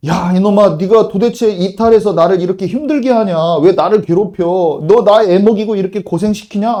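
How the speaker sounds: loud, harsh rebuke from an angry master; God's imagined furious scolding of a wayward child; scolding thunder. Retold or imitated. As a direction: bellow it like an outraged father scolding a runaway. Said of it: "하면서 호통치지 않으세요".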